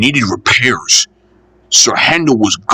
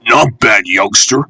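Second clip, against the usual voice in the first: lofty. Acted. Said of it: "said Henry loftily".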